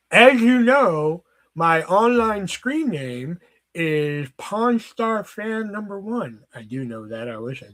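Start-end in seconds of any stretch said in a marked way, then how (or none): 0.1-6.4 slow, drawn-out announcing, starting loud; mock announcement. Telling listeners an online screen name, mock-grand slow announcement. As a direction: draw it out like a proud introduction.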